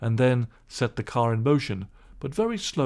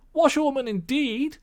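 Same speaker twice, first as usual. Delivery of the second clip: high, louder reckless Toad; reckless shout; 14 semitones higher, 3 dB louder than usual. Acted. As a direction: scoff wildly. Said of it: "he shouted recklessly".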